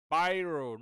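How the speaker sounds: "Biro" said as "bye-ro"; English "bye" vowel in "Biro"; mispronounced biro demo. Shown as a demonstration. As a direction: show the mistaken "bye-ro" for "Biro". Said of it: "not biro".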